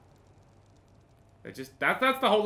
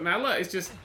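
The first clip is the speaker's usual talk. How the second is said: ordinary talk, nothing marked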